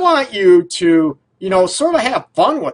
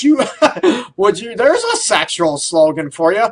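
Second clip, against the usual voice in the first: laughing; 4 semitones higher than usual. Real, not acted. Host cracks up at own joke.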